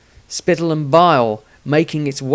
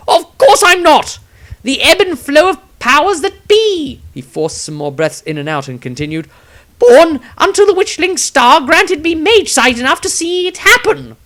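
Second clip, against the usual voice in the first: much higher, loud, breathless pleading; quick defence; 10 dB louder than usual. A narrator's reading. Exhausted wizard defending himself, high breathless voice. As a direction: defend yourself high and strained. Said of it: "quickly defended himself".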